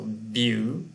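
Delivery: "beautiful" counted out as "beau... ti... ful"; "beautiful" broken into three separate beats; syllable by syllable. Shown as a demonstration. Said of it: "three syllables".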